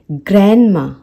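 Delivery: ग्रैंडमा as "gran-ma"; silent D. Shown as a demonstration. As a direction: say ग्रैंडमा with n straight into m. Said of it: "ये होगा ग्रैंडमा".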